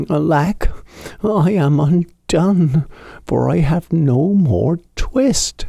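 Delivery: put-on the old tailor despairing by the fire; lamenting tailor. A narrator's reading. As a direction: wail over the unfinished buttonholes.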